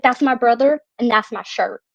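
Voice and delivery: imitated backwoods Arkansas accent; small-town Arkansas accent, imitated; worst accent ever. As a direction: lightly mimic a country kid's Arkansas accent. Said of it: "in the worst accent you have ever heard".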